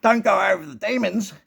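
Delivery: mock the spirit scolding, building to a shrill, high snarl; voiced entity. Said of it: "It's like".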